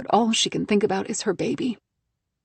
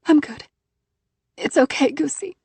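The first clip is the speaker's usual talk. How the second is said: croaking; 8 semitones higher, 3 dB louder than usual. Acted. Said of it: "she croaks".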